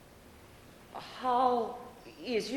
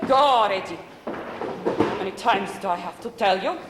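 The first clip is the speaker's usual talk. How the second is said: exasperated shooing; 5 dB louder than usual. Acted. Grandma shooing kids outside.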